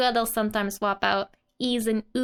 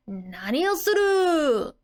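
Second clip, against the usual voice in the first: demanding what; 5 semitones higher than usual. Acted. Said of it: "reading the next manga line".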